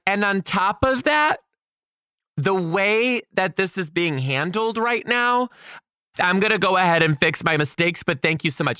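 mock polite defiance; sassy retort. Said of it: "And I was like".

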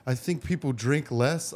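quiet, slow hint of a Bangladeshi accent; accent held back. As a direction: barely put on the Bangladeshi accent. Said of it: "I'm not gonna do the accent".

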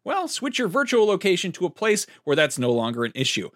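punchy, projected podcast sponsor read; polished announcer-style promo. Acted. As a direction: sell it brightly, with lively pitch swings. Reads sponsor ad.

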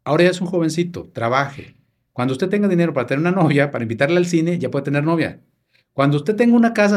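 voz algo más alta y fuerte, de madre que manda; madre estricta. Retold or imitated. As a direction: imita a la madre dando órdenes firmes. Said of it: "así me dijo mi mamá". (el hijo imita a su madre sermoneándolo, alto y firme)

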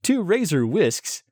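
lightly voiced shopping channel host; chummy on-air product banter; home shopping host.

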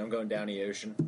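local Baltimore saying, words run together; Baltimore accent. Shown as a demonstration. Guest gives an example saying, Baltimore accent. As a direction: say it in casual Baltimore dialect. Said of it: "and then there's sayings like".

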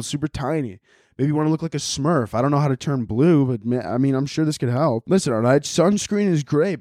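lively, casual podcast ad read; host-read ad, punching the brand; sponsor read. Acted. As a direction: pitch the sponsor with loose comic energy.

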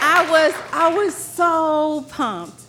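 high, slow joyful laugh of victory; laughing triumph. Real, not acted. Storyteller recalling her surprise win, joyful laughing. Winning the race.

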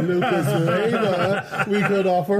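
laughing. Real, not acted. Joking offer of a player.

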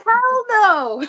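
high, amused flat refusal; Monty saying no. Retold or imitated. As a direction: toss off a firm no. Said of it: "And he said".

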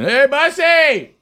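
high, drawn-out cheerful hello; morning greeting. Retold or imitated. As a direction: call out a big slow hey. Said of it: "did my normal every morning".

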